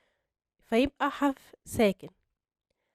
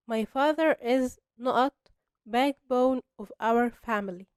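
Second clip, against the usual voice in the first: slow exercise reading; much slower than usual. Shown as a demonstration. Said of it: "نرجع للإكسرسايز".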